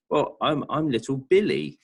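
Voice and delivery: put-on a small boy stammering out his own name; childlike little boy. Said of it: "he almost refers to himself like".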